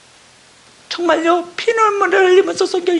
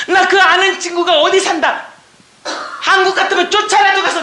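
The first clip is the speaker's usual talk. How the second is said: voice breaking; 4 semitones higher than usual. Real, not acted. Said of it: "voice breaks while testifying".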